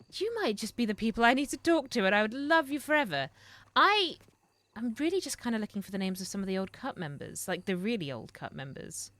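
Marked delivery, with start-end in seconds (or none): none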